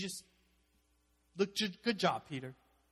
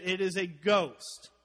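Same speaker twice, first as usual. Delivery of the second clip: mock terrified cry; 3 semitones higher, 10 dB louder, slower than usual. Disciples cry out in fear.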